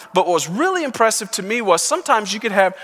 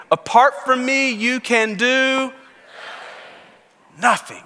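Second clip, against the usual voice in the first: firm, believing declaration of the verse; with conviction; 3 semitones higher, slower than usual. Shown as a demonstration. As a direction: say it like you believe it. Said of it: "Now you gotta say it like you believe it".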